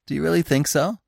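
high, hopeful delight; joyful. A narrator's reading. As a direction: ask it in a lifted, pleased voice. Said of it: "asked Bambi joyfully".

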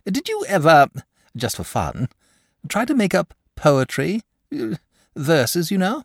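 hesitant, high-pitched bashful asking. A narrator's reading. Dragon shyly asks the boy about poetry, bashful. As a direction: broach it shyly, in halting little pieces. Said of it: "Presently he said bashfully".

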